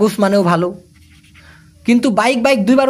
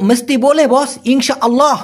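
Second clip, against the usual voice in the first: confident and spirited; 5 semitones higher than usual. Shown as a demonstration. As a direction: say it with real drive and spirit. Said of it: "একদম মনোবল নিয়ে ঠাটায় বলবে না".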